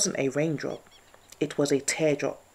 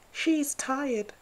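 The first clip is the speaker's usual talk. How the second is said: squirrel voice; 11 semitones higher than usual. Acted.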